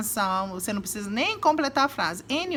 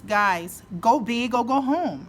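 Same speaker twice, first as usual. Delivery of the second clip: rallying cry; 3 dB louder, slower than usual. Shown as a demonstration. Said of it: "você quer falar pras pessoas".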